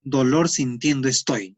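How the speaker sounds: slow, lightly voiced Andean Spanish. Shown as a demonstration. Teacher recalling Andean example for students, slow light Andean accent. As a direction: lean gently into an Andean Spanish lilt, slowly. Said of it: "en el andino".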